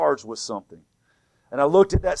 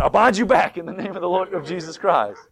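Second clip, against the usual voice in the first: louder retold command to Satan; commanding rebuke; 3 semitones higher, 5 dB louder than usual. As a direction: raise the voice to bind the devil.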